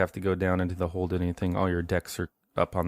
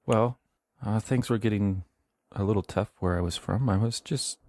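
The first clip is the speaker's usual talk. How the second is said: put-on pleading boy; 4 semitones higher than usual. Boy explains to Stanton.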